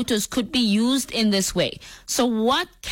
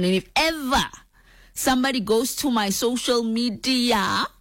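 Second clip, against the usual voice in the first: mock warning; 3 semitones higher than usual. Real, not acted. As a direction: warn them with pointed pauses. Mock warning to would-be image thieves.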